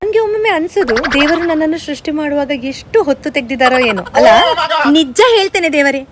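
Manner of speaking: lightly voiced fussy, self-adoring girl; touchy girl-gang diva showing off to friends; pampered diva. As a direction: play the over-sensitive princess, all airs. Sketch of the sensitive personality.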